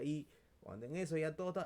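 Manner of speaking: loud, rising, fast telling; excited storytelling. Retold or imitated. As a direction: build up the exam moment loudly. Relato emocionado del examen. (relato emocionado y fuerte)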